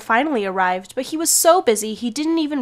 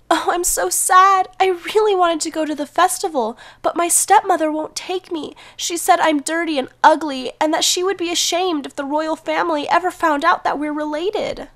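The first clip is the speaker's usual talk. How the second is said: sad lament; 6 semitones higher than usual. Acted. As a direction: pour out your sadness. Cinderella laments at the tree.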